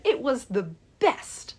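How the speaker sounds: delighted. Retold or imitated. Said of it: "she is so excited".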